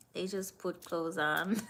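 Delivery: chuckling through the words; giggling while saying it; laughing. Real, not acted. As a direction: laugh it out in disbelief. Laughing at cold-weather habits.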